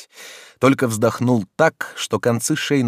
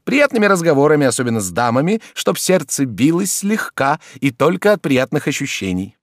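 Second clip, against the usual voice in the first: higher, louder doctor advising brightly; raised voice of a doctor giving advice; doctor's voice; 7 semitones higher, 5 dB louder than usual. Acted. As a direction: play the chatty society doctor.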